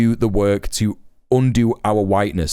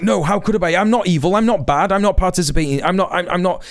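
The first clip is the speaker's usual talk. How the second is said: defensive white person; 5 semitones higher than usual. Retold or imitated. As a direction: mimic a flustered, defensive protest. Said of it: "You're gonna be like".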